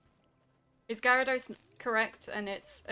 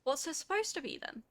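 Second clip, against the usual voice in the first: disbelief; 12 semitones higher than usual. Real, not acted. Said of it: "incredulous at being corrected".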